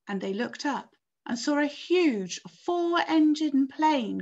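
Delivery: animated read-aloud with lifted key words; story narration. A narrator's reading. Teacher reading of the plane cutting the strings, story narration. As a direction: read it dramatically to a listening class.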